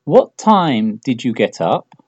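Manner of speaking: slow, careful, word by word; slow model question. Shown as a demonstration. Teacher models the question slowly for students, slow and clear. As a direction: spell the question out slowly for learners. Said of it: "piensa en la pregunta más lógica".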